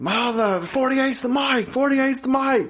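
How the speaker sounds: high, slow quarterback call; Peyton Manning. Retold or imitated. Guy dubbing over the game audio, mock quarterback call. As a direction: draw out the repeated play call. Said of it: "some guy that sounded like Peyton Manning".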